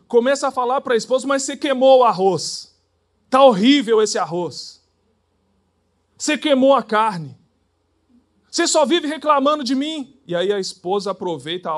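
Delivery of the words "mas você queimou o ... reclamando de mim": louder, a nagging husband's complaints; husband scolding. Retold or imitated. Husband scolds his wife over burnt rice, loudly. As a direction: bark out the complaints about the food.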